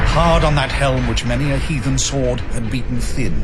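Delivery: loud, driving battle narration; rising to a loud, fast climax. A narrator's reading. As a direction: build it into the final blow. Battle climax, Arthur slays Modred.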